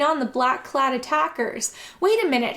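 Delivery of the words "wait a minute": shouted. A narrator's reading. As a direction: stop them with a shout. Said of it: "he shouted".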